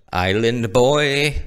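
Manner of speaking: put-on slow, stretched-out island boy voice; a drawn-out impression of the island boys; mock island boy drawl. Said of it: "Don't do that".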